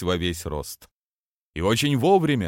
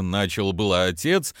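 usual speaking voice

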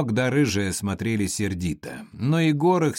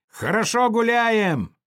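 loud, high party whoop; rowdy cheer; 12 semitones higher, 4 dB louder than usual. Acted. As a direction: revel at the top of the voice.

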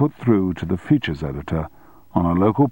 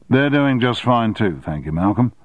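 mimicking Macready; 3 semitones higher than usual. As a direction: mimic his bland reply back at him. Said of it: "purposely mimicking him".

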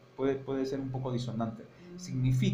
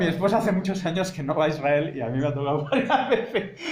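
louder, laughing through the words; laughing while telling; 5 semitones higher, 7 dB louder than usual. Real, not acted. Teacher tells the class about Israel airport checks, laughing. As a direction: chuckle your way through the story.

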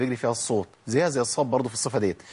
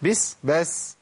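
shooing a cat; 4 semitones higher, much slower than usual. Shown as a demonstration. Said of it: "لو شفت قطة بتقول لها إيه".

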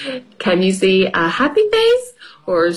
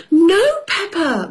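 stern mother; 10 semitones higher than usual. Acted. Mummy voiced in story.

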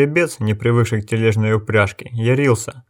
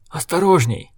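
sharp warning cry, pitched up; shout; 6 semitones higher than usual. A narrator's reading. Innkeeper warning of flying sparks, shouting. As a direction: call out a warning over the fire. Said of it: "крикнул Окен".

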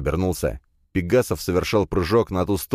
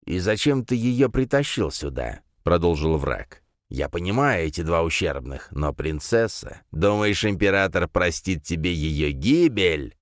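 sneering panto villain. Acted. Villain mocks the hero.

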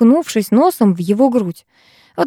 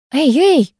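higher, flustered interjection; mildly huffed objection; puffing protest; 7 semitones higher than usual. A narrator's reading. Girl protesting boy leaning close, puffing mildly. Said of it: "пропыхтела я".

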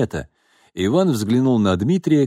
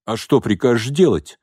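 indignant; 3 semitones higher, 3 dB louder than usual. Acted. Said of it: "возмутился Иван".

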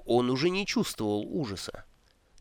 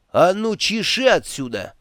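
higher, louder bark to clear off; barking order; 6 semitones higher, 4 dB louder than usual. Acted. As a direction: bark him away. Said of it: "рявкнул волшебник". (рявкнуть: громко и выше, прогоняя)

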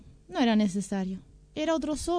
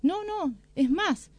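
sly fox; 7 semitones higher, slower than usual. Acted. Fox pretends the meat is bad.

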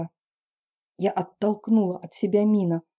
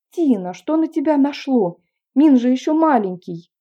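pleading mother; 5 semitones higher, 6 dB louder than usual. Acted. Mother scolds daughter.

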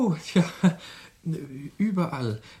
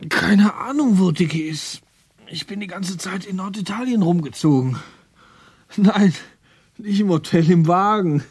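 loud, high practised denials; over-projected answers to an imagined policeman; rehearsing for police; 5 semitones higher, 6 dB louder than usual. Pretend. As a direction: rehearse your alibi with exaggerated emphasis. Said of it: "Er übte schon für die Polizei".

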